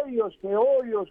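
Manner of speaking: έιος and όιος with both vowels sounded; ancient diphthongs. Shown as a demonstration. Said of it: "επειδή δεν μπορούσαν να τα συγκρατήσουν".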